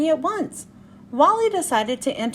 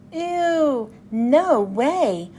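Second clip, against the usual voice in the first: mild disgusted shout; 3 semitones higher, 3 dB louder, slower than usual. Acted. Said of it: "shouted Ruby".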